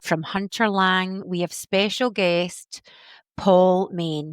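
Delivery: announcing the guest like a game show host; big host intro for the guest. Pretend. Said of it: "say that like a game show host".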